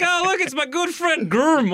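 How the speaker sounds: a hint of an American saying "Graham" as "grum"; American accent imitation. Imitating how Americans greet a friend called Graham, lightly American. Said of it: "They go like".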